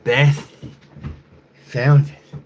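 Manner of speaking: loud high call-out; sudden loud high call; shout. Acted. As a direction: blurt it out loud.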